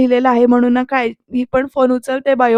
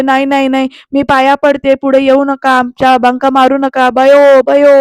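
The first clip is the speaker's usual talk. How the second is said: loud pleading cries, rising at the end; frightened shouting; 6 dB louder than usual. Retold or imitated. Terrified Digu mama begs the attacker loudly. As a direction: beg them loudly not to hurt him. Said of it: "असं तो दिगू मामा ना ओरडत असतो".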